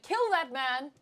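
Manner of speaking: high, loud villain command; over-the-top shrieked order, hammed up; Sinister. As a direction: order it in camp outrage. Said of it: "When someone's like".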